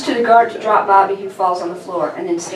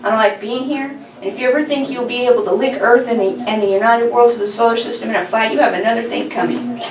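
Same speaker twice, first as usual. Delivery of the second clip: put-on slightly higher, defiant young captive; lightly voiced boy, bold and defiant; 3 semitones higher than usual. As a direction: stand up to the villain, chin out. Narrator voices Bobby.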